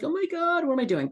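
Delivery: mock panicked "what am I doing". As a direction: play your own freak-out, mock alarmed. Acting out her own panic.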